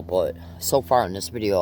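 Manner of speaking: ordinary delivery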